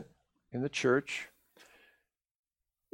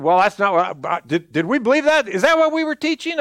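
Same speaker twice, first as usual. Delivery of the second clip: puzzled disbelief. Retold or imitated. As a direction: act out startled doubt, pitch climbing. Acting out people's startled doubt.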